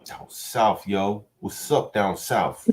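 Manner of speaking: a faint put-on Scottish accent. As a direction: play a casual Scottish lad. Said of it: "a Scottish accent".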